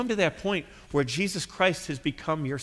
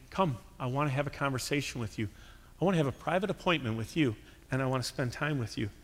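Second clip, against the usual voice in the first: tender invitation; 6 dB quieter, faster than usual. Retold or imitated. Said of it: "Prayer is the Father saying".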